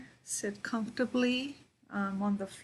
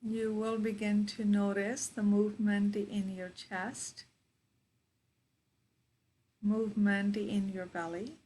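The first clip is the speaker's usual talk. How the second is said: guided meditation. Real, not acted. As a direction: guide them into their breath, unhurried.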